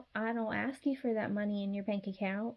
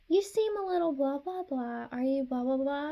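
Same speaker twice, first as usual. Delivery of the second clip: fake concern; 4 semitones higher than usual. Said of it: "they'll be like".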